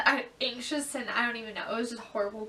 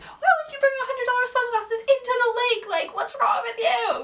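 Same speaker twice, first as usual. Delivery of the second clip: high, loud indignant yelling; fighting back; 11 semitones higher, 8 dB louder than usual. Retold or imitated. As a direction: snap back at dad.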